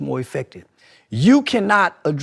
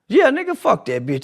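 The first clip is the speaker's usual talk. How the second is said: street talk demo; 4 semitones higher, 4 dB louder than usual. Shown as a demonstration. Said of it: "I talk like that to the little niggas".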